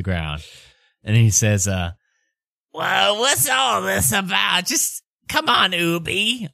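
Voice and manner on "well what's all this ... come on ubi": high, slow, put-on protesting dad; dad character voice. Ubo's pinned dad protesting the tackle, high and drawn-out. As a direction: protest in a silly raised voice.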